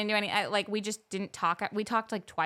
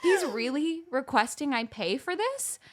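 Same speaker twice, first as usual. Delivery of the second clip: laughing disbelief; 6 semitones higher, 5 dB louder than usual. Real, not acted.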